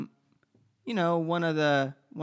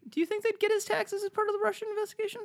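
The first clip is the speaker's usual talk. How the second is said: incredulous question; much faster than usual. Real, not acted.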